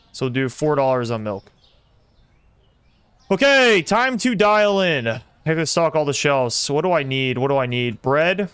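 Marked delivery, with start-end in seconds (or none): 3.3-5.1 big kickoff announcement; rallying. Real, not acted. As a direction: psych yourself up, stretching the words out. Rallying himself to start work.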